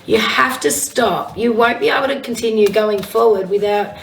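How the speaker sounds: husky, slightly rough voice. Real, not acted. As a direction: speak through a husky throat. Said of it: "says me with this husky voice".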